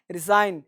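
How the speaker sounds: रिजाइन with the G dropped; silent G. Shown as a demonstration. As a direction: model रिजाइन as a single word, no G sound. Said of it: "ये जी का silent कम करेंगे".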